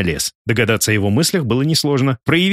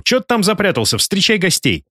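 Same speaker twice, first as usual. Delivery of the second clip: higher-pitched summons to a hidden host; calling out; 8 semitones higher than usual. A narrator's reading. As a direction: call someone out of the house, not quite shouting. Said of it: "громко прокричал Ивашов". (оклик высоким голосом)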